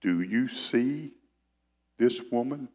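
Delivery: slow, hushed question, drawn out; Jesus asking slowly. Acted. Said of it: "He says, "Simon".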